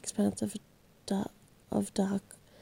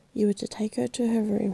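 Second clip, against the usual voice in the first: husky voice. Acted. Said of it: "he said in a husky voice".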